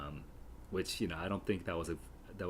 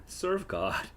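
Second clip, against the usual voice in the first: higher, sing-song "Serve God"; mock Nurse; 10 semitones higher than usual. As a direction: play the Nurse's line up high. Nurse line read, then repeated.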